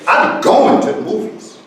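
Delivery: going leaned on, the rest light; stress on going. Shown as a demonstration. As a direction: hit going as the action word. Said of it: "we're gonna put a stress on going".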